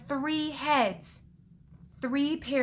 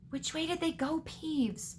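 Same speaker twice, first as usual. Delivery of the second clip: higher, softer character voice; questioning caretaker; 6 semitones higher, 5 dB quieter than usual. A narrator's reading. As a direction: interrogate in a put-on higher voice.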